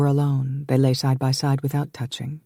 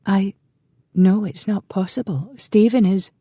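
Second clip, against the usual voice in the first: flustered protest; 7 semitones higher than usual. Acted. Sister resists brother's plan, flustered and higher. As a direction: stammer out the refusal.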